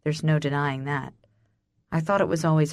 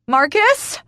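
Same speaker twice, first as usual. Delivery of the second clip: high, loud call for help; raised, urgent yell; angry cry; 9 semitones higher, 7 dB louder than usual. A narrator's reading. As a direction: shout the name angrily. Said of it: "I cry, angrily".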